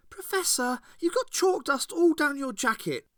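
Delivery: put-on high, loud young girl voice, bitter; Ace's girl voice, cutting and bitter. A narrator's reading. Ace to Captain Sorin, bitter and high.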